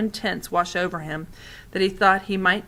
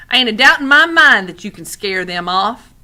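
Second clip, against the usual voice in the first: put-on old lady; 2 semitones higher, 10 dB louder than usual. A narrator's reading. Old lady voiced in story.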